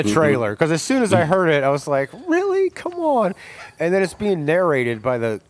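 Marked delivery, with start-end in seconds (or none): 2.3-3.3 high, incredulous really; exasperated disbelief. Retold or imitated. Hearing an overused rock song in a trailer, incredulous. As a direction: groan it in mock disbelief.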